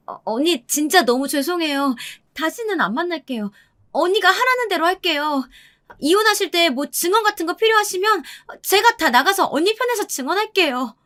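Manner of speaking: high-pitched, frightened pleading; 겁먹은 상간녀. A narrator's reading. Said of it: "상간녀가 더 바들바들 떨더라고요". (겁에 질려 높은 목소리로 애원하듯)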